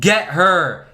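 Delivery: loud shout from the dark. Acted. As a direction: bellow it out. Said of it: "the two words it shouted".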